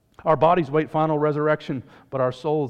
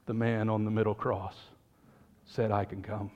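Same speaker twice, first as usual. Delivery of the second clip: much softer and lower, simple and sure; humble quiet answer; 5 semitones lower, 8 dB quieter than usual. Acted. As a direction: say it softly, like a child's plain truth.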